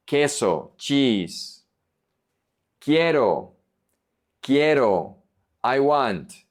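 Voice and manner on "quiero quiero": Quiero as "KYEH-ro", no w sound; silent U. Shown as a demonstration. Teacher modelling Spanish Q, Quiero with silent U. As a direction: drop the u in Quiero entirely. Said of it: "The U is silent".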